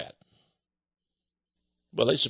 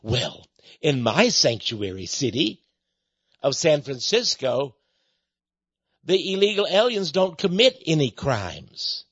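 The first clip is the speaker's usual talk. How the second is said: lower, smug mocking imitation of a politician; mocking Pelosi; 3 semitones lower than usual. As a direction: sneer it out as her, lower and prissy. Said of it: "you know what Nancy Pelosi told her".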